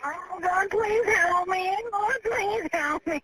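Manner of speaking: slow, sobbing plea to God; real tears, dragging each word out slowly; crying prayer. Real, not acted. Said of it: "Oh, I'm scared".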